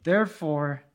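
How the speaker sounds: drawn out with stalling pauses; deliberately slow. Real, not acted. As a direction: stall for time, phrase by phrase. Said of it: "I am speaking slowly".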